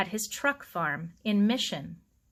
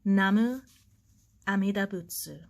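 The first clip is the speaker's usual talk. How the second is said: a slow, hushed prayer with a pause after Namu; slow and reverent. Acted. Old gardener honouring the bonsai, slow reverent prayer. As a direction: murmur the words like a devout old gardener. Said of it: "slowly and reverently".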